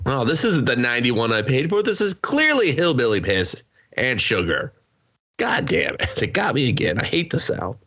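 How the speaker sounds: hammed-up complaint about the South; mock city guy complaining. City guy whining about his car, mock voice.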